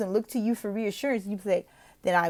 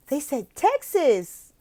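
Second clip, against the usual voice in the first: loud, gasping delight, slowly; excited gasp; 7 semitones higher, 4 dB louder, much slower than usual. Shown as a demonstration. Tutor acts thrilled that the text says Texas. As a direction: act thrilled about Texas. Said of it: "And then like".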